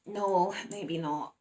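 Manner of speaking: very slow, doubtful no maybe not; a mild mock reluctance; reluctant no. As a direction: stretch it out unwillingly.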